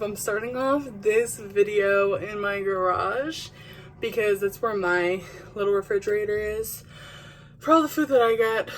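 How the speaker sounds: breathing heavy after the stairs; puffing from carrying groceries. Real, not acted. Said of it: "sorry if I'm literally breathing heavy".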